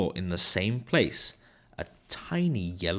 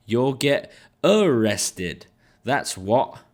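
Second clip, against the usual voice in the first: gloating joke; 5 dB louder, slower than usual. Acted. Mister Dart gloating at arrest.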